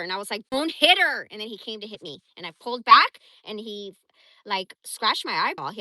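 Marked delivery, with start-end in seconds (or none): 0.5-1.3 high, loud "don't hit her"; yelled plea, much higher and louder; retold yell. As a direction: shout to stop him hitting the dog. Retold scream at husband.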